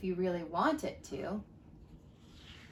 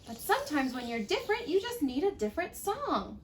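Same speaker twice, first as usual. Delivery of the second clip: cricket voice; 4 semitones higher, 4 dB quieter than usual. Acted. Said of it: "coughed a cricket".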